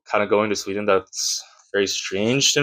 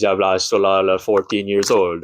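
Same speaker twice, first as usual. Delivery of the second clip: mock Swedish. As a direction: babble in pretend Swedish. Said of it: "And they're like".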